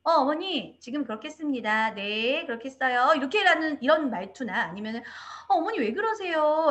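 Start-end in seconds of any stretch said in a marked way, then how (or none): 0.0-3.1 imitating a teacher's stiff phrasing; mildly rigid, formal mock reply. Teacher answering a mother, mildly stiff tone. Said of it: "약간 좀 딱딱한 어조로 말씀하시는 분들". 5.5-6.7 imitating a touch of annoyance, higher pitched; slightly irritated. Teacher questioning a mother, slightly irritated. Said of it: "약간 짜증 섞인 말투".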